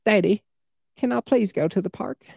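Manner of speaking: put-on high-pitched little Southern child; put-on Southern accent, child's voice; Southern kid. Shown as a demonstration. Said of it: "A kid with a Southern accent".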